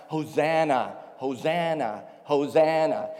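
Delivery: emphatic chanted cry, one word at a time; punchy, mildly loud crowd chant. Acted. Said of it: "the crowd would be crying out".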